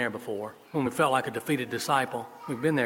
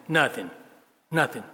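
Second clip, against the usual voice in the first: unenthusiastic. Acted. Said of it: "in a less than enthusiastic tone".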